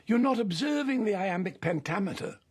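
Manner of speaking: a hint of a grand director schooling an actor; explaining verse to a young actor, mildly imitated; Orson Welles. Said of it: "He said".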